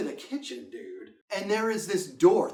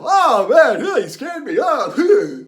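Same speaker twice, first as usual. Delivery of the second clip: mock casual reaction; 6 semitones higher, 11 dB louder, much slower than usual. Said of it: "He didn't go".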